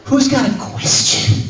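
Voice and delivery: slow, high lift at the end of "question"; rising inflection. Shown as a demonstration. Guest asking the audience who's got a question, rising inflection. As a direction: swing "question" upward at the end. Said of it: "inflection that goes up at the end".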